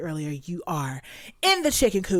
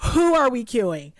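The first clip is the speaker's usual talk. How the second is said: loud; 5 semitones higher, 7 dB louder than usual. Real, not acted. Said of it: "I got too loud".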